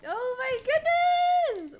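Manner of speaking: slow, drawn-out rising awe; building, stretched amazement; stunned repetition. Real, not acted. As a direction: savour every word. Overwhelmed by win.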